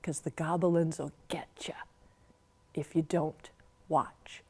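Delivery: breathless hushed warning; whispered goblin warning; spooky whisper. Acted. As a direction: scare the children with the refrain. Spooky refrain of the poem.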